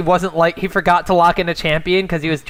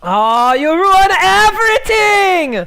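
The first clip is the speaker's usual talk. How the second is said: high, slow, louder whine; whiny mock complaint; 12 semitones higher, 5 dB louder, much slower than usual. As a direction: ham up the disappointment. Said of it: "teasing the host".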